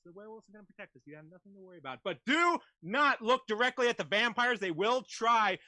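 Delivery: cabin announcement to passengers; flight attendant announcement. Acted. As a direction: airline PA address. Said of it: "your character is gonna be a flight attendant".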